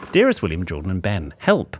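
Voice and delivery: lightly dramatised, deliberate letter reading; letter read aloud. Acted. Podcast host reads a listener's plea to co-hosts, letter-reading voice.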